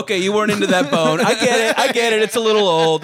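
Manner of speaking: put-on talking for the dog in a light Jersey accent; a hint of a Jersey guy voicing a dog. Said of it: "Jersey guy voice as I was talking for your dog".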